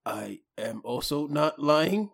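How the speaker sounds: meek denial. Acted. Second little one denies lying.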